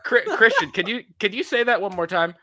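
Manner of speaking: mock-tactful request for another take; polite baffled director. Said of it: "Chris Nolan is like".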